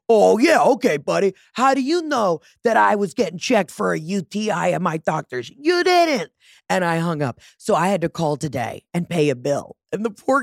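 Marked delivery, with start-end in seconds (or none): 0.1-6.3 high sarcastic jabs; mock him with a singsong; sassy sarcasm. Brushing off the caller, high sarcastic singsong.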